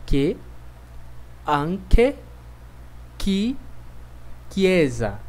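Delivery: anche and chiesa with a hard K sound; Italian CHE demo. Shown as a demonstration. Teacher modeling hard CH words, clearly. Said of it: "pronunciadas assim".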